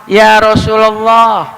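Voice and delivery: RASULULLAH with an "a" after the L: Rasulallah; fathah reading. Shown as a demonstration. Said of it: "maka setelahnya dibacanya fathah".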